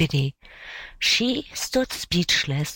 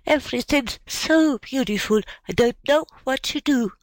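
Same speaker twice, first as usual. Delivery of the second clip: put-on tearful child; 7 semitones higher than usual. A narrator's reading. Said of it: "sobbed little Biddy".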